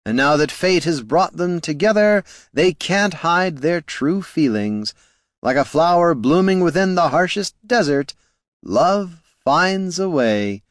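high, lilting and dreamy, drawn out; airy bard. A narrator's reading. The bard teasing Loruna about love, airy and high. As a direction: float it like a romantic ballad. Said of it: "said the bard airily".

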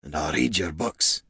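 low, hushed confiding; whispered promise. A narrator's reading. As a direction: murmur it to a lost friend. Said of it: "he whispered to Niln".

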